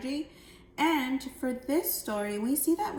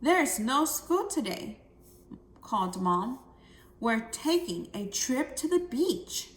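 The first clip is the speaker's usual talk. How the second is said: excited. Shown as a demonstration. Mom surprises Jill with the beach trip, excited. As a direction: announce the beach trip with delight. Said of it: "That is something very exciting".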